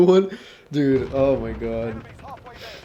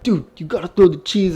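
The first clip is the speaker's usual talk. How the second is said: higher, louder voice of eager friends; mock peer-pressure pleading, pitched up; imitated egging-on; 6 semitones higher, 6 dB louder than usual. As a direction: urge him on like an excited buddy.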